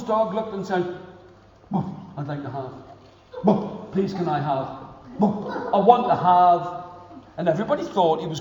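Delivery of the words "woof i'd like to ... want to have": dog voice. Acted. Dog speaks.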